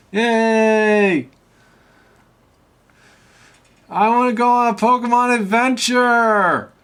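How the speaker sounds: put-on high, loud childlike glee; excited cheer. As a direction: cheer like an eager kid. Cheering character voice.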